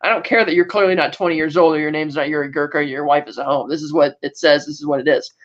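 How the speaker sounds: lightly voiced stubborn official, low; stubborn Stasi agent. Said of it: "stubborn Stasi agent was like".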